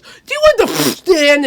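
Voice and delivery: loud, high, slow demand; imitated lawyer outburst. Crazy lawyer on the phone to someone, imitated loud outburst.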